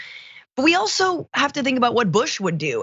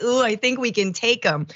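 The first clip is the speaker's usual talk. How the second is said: mock neocon; 3 semitones higher than usual. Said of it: "a little neocon in there being like".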